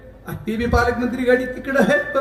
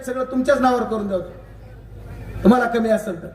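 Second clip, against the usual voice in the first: normal talking voice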